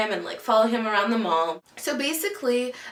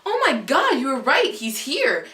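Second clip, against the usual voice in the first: high, loud excited exclamation; retold panic; 5 semitones higher, 5 dB louder than usual. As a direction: act out startled urgency, easing off at the end. Retold shock at seeing her crush.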